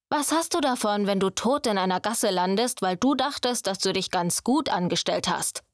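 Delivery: lightly voiced young master, scolding; a hint of a strict teacher pressing the point; stern mentor. Luca scolds the apprentice Quinn, stern and pressing.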